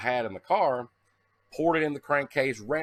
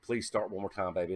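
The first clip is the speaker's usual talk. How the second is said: soft pleading; 4 semitones lower, 5 dB quieter than usual. Retold or imitated. Pleading with his car.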